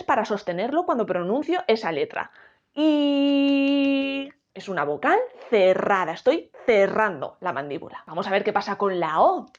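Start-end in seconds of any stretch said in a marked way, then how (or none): 2.7-4.3 a long I said with a pencil gripped between the teeth; vowel I with pencil. Shown as a demonstration. Teacher showing students the closed vowel, pencil in teeth. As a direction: hold the I, teeth biting the pencil. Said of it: "estoy haciendo presión con los dientes".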